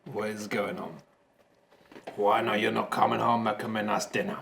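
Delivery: lightly voiced poorly wife, low and soft; mock-plaintive take on a wife with flu; wife impression. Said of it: "That's my wife's voice".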